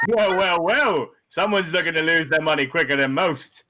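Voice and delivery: gawk at the big bet; mock amazement. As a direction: dealer teasing the big spender. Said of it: "he goes".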